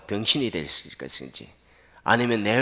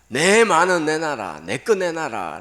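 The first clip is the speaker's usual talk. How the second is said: loud, higher, slow angry demand; angry shout; 8 semitones higher, 8 dB louder, slower than usual. Retold or imitated. Ungrateful villager claiming the money as his own, angry shout. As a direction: yell as if owed the money. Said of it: "고함을 지르고 화를 내고".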